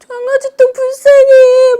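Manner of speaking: put-on high, slow, tearful little girl's voice; crying child. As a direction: whimper it like a small daughter in tears. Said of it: "막 이러면서".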